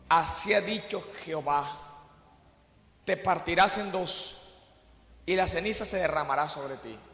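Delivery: low, soft, grave pronouncement; solemn prophecy. Retold or imitated. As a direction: prophet cursing the altar in a low hushed voice. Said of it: "le dijo".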